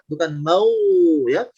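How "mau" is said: "mau" with lips pushed far forward; over-pouted reading. Shown as a demonstration. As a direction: overdo the rounding on "mau" with a pout. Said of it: "bukan berlebihan monyong ke depan". ("mau" dengan bibir terlalu monyong)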